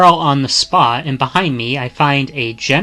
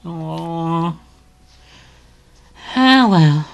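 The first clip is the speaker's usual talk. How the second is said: put-on higher, lilting voice of a blunt young woman; teasing young woman; 4 semitones higher than usual. Young woman teasing a stranger she just met, higher and sing-song. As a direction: tease the stranger sweetly while insulting him.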